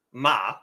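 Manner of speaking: "ma" held flat and even; level-vowel "ma"; first tone. Shown as a demonstration. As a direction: say "ma" on one level pitch. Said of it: "stays flat and even".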